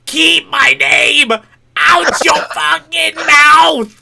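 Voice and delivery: high, drawn-out bellow; furious shout. Retold or imitated. Cartoon parody of the slap outburst, furious drawn-out shout. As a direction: yell it full force, stretching every word. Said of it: "And then you just hear a".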